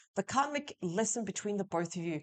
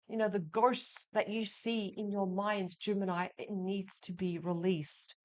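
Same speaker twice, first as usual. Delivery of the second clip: ordinary talk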